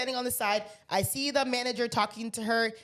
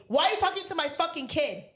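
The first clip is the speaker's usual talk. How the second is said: higher-pitched mock confrontation; angry mother; 4 semitones higher than usual. Mother cutting in during a seat dispute, confrontational. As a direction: imitate a mother going off on a stranger.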